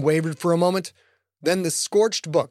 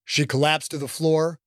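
ordinary delivery, nothing marked

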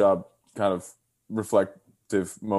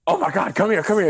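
lightly voiced kind grandma, higher; grandma comforting; 10 semitones higher, 3 dB louder, faster than usual. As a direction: coax her over like a caring grandma. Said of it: "And she's like".

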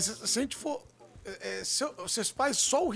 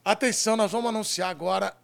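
locutor de auditório, voz alta; anunciador; 3 dB louder than usual. Acted. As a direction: anuncie como apresentador de TV. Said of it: "deixa eu anunciar". (apresentador anunciando o quadro com pompa)

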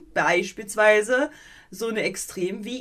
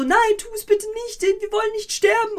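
high, fast, pleading squeak; pleading melon voice; 12 semitones higher, 4 dB louder, faster than usual. Retold or imitated. Melons begging not to be killed, high and pleading. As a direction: beg like a tiny melon. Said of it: "Die sagen so".

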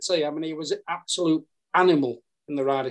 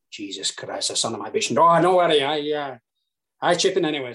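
Sevi. Retold or imitated. Caddie retelling Sevi's exasperation at his partner, Spanish-Yorkshire accent. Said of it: "your Spanish stroke Yorkshire accent".

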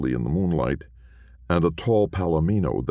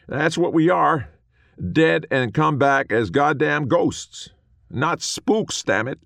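high, loud indignant cowboy; bristle, high and loud; offended little ghost; 14 semitones higher, 5 dB louder than usual. A narrator's reading. Small man insists.

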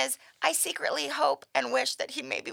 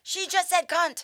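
high, slow mock shock; scandalised exclamation; 7 semitones higher than usual. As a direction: imitate aghast listeners, drawing it out. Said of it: "then everyone's like".

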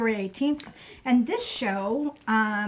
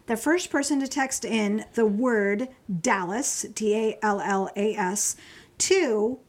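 slow announcement; slower than usual. Real, not acted. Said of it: "Okay, so ready?".

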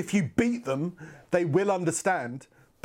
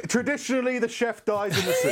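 laughing; 8 semitones higher than usual. Real, not acted. Joke delivered laughing.

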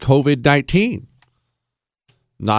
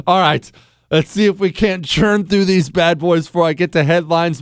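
usual speaking voice

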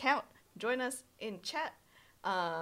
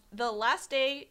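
usual speaking voice

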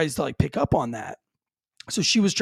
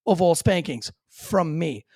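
stern warning to son; 5 semitones higher than usual. Retold or imitated. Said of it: "I'm like".

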